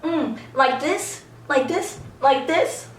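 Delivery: softly mimicking someone to tease; mocking imitation. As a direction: poke fun with each repeat. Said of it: "like, mocking him".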